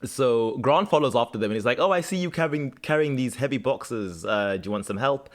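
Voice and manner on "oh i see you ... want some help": lightly attempted Australian accent; a patchy Aussie accent, offering help. The new boy offering to carry boxes, Aussie accent. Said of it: "Do an Aussie accent".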